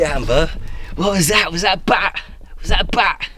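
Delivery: high, urgent startled questions; jumpy and high-pitched after a fright; startled questioning. Real, not acted. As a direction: ask in sudden real alarm, pitched right up. Startled by possible bat.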